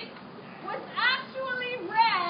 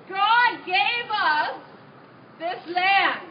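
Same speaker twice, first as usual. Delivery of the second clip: loud, pompous herald reading decree; formal proclamation; 4 dB louder than usual. Acted. Continues conquest proclamation.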